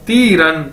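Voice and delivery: तीरन with a long ती falling into रन; pronunciation demo. Shown as a demonstration. Teacher joins both syllables for learners, pronunciation demo. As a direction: model तीरन as one drawn-out word. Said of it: "इन दोनों को इकट्ठा कर दिया जाए".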